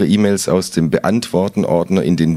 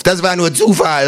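called out; 7 semitones higher than usual. A narrator's reading. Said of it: "ruft es".

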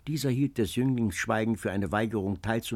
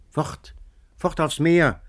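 louder, despairing shout; desperate cry; 5 semitones higher, 5 dB louder, slower than usual. A narrator's reading. Antonio in despair over rejection, desperate cry. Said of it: "schrie Antonio in heller Verzweiflung".

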